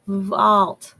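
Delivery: Vault said as one quick word; blended word. Shown as a demonstration. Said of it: "say it a little faster".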